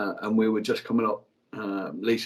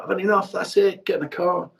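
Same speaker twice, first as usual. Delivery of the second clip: higher, firm ultimatum; telling his wife to get in the car, fed up; 7 semitones higher than usual. Retold or imitated. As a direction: snap decision, done arguing. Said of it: "I was like".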